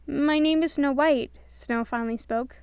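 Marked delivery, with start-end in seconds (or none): 0.1-1.3 slow, higher, sweet; gentle princess voice. A narrator's reading. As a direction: introduce yourself shyly. Snow finally speaks.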